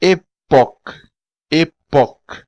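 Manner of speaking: époque with a clear final k; époque said "eh-POK"; époque, last syllable stressed, k sounded; Creole word. Shown as a demonstration. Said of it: "consoantes são pronunciáveis".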